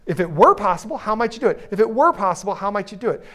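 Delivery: WERE picked out in a repeated question; stress on WERE. Shown as a demonstration. Coach repeats the phrase instead of giving orders, stressing WERE. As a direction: give "were" the weight each time. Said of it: "if you stress the word were".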